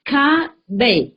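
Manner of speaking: Ca and Bay as two separate syllables; Ca-Bay sounded out. Shown as a demonstration. Teacher showing how the written name is pronounced, Ca-Bay sounded out. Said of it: "That is pronounced".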